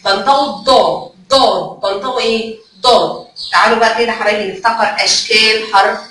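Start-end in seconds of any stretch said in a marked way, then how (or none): 1.3-1.8 ضاد with a heavy, emphatic D. Shown as a demonstration. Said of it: "الضاد مفخم". 2.8-3.3 ضاد opened on a heavy emphatic D. Shown as a demonstration. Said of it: "الضاد مفخم".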